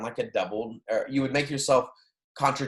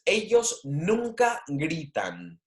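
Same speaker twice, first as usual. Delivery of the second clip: slow model reading; 4 semitones higher, slower than usual. Shown as a demonstration. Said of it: "another sentence".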